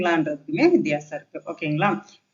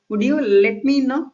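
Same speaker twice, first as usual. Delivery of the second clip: higher, slow model sentence; polite request; 5 semitones higher, 4 dB louder, much slower than usual. Shown as a demonstration. Teacher models polite English for learners, polite request. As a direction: ask politely, slowly and higher. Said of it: "இந்த மாதிரி பொலைட்டா பேசினா".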